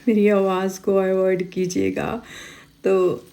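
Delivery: real rough, strained throat; गले की ख़राश वाली आवाज़; hoarse from a sore throat. Real, not acted. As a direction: push words through a sore throat. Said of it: "आज मेरा गला बहुत ख़राब है".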